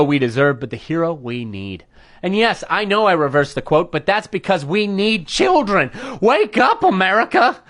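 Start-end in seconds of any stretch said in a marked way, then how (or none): 6.2-7.6 higher-pitched catchphrase call; rallying cry. Acted. Host breaking into the rant at America, rallying cry. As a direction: call out to rouse the nation.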